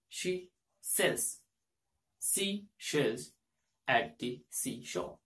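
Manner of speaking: "She sells" and "Seashells" split apart with the sh drawn out; slow tongue twister. Shown as a demonstration. Teacher modelling the tongue twister for the sh sound. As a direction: break the twister into slow chunks. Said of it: "can you pronounce this one".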